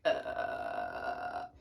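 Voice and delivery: put-on deep croaking fry like the Grudge girl. Shown as a demonstration. Teacher imitates the Grudge girl's croak. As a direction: creak it out like a horror ghost. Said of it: "grudge voice".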